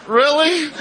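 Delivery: very high, loud squeak of delight; hammed-up astonished yelp; mock thrilled surprise. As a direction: squeal it like an overjoyed kid. Acting own thrilled reply to wife.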